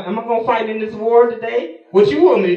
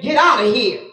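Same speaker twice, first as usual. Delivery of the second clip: dismissive. Acted. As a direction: Get out of here tossed off firmly at normal volume. Nabal dismissing the messengers.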